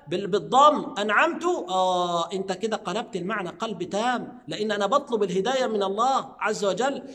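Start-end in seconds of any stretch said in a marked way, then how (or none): 1.0-1.4 أنعمت ending in -tu, said as أنعمتُ; wrong damma on ta. Shown as a demonstration. Teacher showing the forbidden damma ending. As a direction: end أنعمت with a U vowel. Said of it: "تنطق التاء بالضم".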